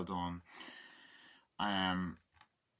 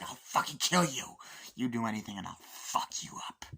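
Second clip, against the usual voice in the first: threatening snarl; 2 semitones higher than usual. Retold or imitated. Character threatening her.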